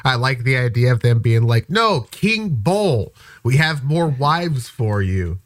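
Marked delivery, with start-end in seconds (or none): 1.7-5.4 lightly voiced coaxer, drawn-out swooping opening; slow, reassure him with mock ceremony; coaxing recruiters. Recruiters coaxing a basketball player with more wives, mock-reassuring.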